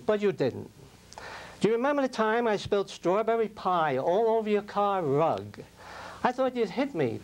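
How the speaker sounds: a lightly performed poem, gentle and measured; poem recitation. Acted. Speaker reciting a poem to a late husband, lightly performed.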